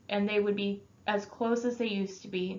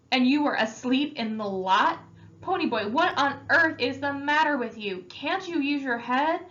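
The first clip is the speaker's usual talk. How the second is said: exasperated scolding rising higher and louder; angry; 6 semitones higher, 3 dB louder than usual. Acted. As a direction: lay into him, pitch climbing. Older brother scolding angrily.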